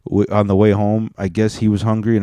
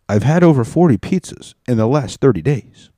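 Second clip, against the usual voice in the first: higher, louder mock repeat of the clip; 4 semitones higher, 3 dB louder than usual. Repeating the soundboard line back to viewers, mock loud. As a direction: echo the soundboard line, hammed up. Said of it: "You heard the man".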